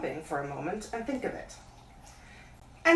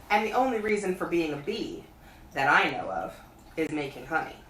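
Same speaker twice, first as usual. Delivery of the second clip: Pooh pondering. Acted. Pooh thinking aloud.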